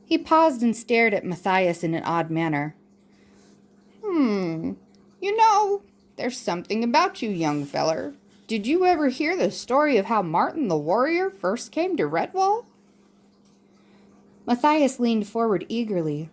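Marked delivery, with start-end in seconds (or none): 4.0-12.6 put-on higher, lilting old monk voice, coaxing; a wise old mouse leaning in with a secret; elderly monk teasing out a story; musing old mouse.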